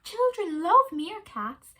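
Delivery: high, slow coaxing wife; wife's voice. A narrator's reading. Wife calling Kevin back to bed, high and slow. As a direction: call him back to bed.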